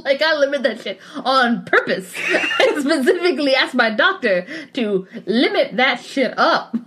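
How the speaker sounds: amused, laugh bubbling under the words; talking through laughter. Real, not acted. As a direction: make the point while cracking up. Joking while both crack up.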